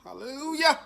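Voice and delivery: high, loud hallelujah of pure joy; ecstatic cry. Real, not acted. Reviewer tastes spicy sauce, ecstatic hallelujah. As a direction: praise the sauce like church.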